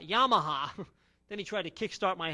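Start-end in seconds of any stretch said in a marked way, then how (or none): 0.0-0.7 mock yell. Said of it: "yelled out".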